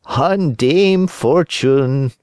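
high, slow cat echo. Acted. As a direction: parrot the fox like a cat. Cat echoes.

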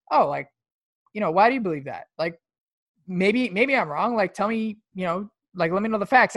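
open, curious questioning with no edge; sincere, curious "why do you believe that"; genuinely curious. Shown as a demonstration. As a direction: ask like you really want to know. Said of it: "I don't say that in, like, a fucking condescending way".

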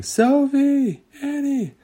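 high, long calls across the cave; calling out. Acted. Friends call across the dark cave, high. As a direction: shout so they can find you. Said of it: "heard Coco and Wendy saying".

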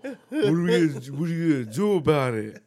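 loud mock kid sass; defiant kids. Imitating defiant kids coming outside, loud. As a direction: taunt back like a bratty kid. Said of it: "they fucking come outside".

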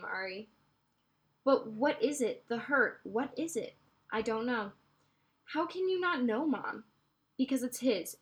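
steady read-aloud narration with voiced dialogue; story reading. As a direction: read the novel aloud to listeners. Reads novel aloud.

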